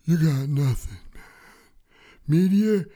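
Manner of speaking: cocky, high taunting creature voice; tough water bear voice. Acted. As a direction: taunt the apocalypse like a tiny tough guy. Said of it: "why does he sound like that?".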